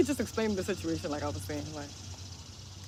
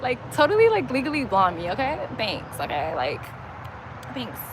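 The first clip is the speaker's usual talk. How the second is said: lightly voiced ditzy valley girl; playful mock valley-girl talk; valley girl act. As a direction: put on a mild Legally Blonde lilt. Acting out a Legally Blonde type.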